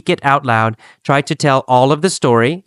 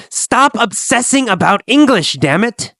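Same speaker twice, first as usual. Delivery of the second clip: mild scolding; 8 semitones higher than usual. Acted. Gabriel scolds Kathy.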